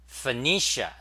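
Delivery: Phoenicia with a short, unstressed first vowel, fuh-NEE-shuh; correct pronunciation. Shown as a demonstration. Streamer showing viewers how Phoenicia is pronounced, correct pronunciation. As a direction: stress the NEE in Phoenicia after a reduced "fuh". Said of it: "so it's pronounced Phoenicia".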